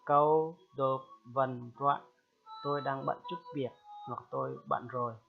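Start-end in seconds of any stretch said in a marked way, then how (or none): 0.1-2.0 slowed right down, every syllable held; slow drill. Shown as a demonstration. Teacher repeating the phrase slowly for learners. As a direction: stretch it out for the class. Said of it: "Được chưa?".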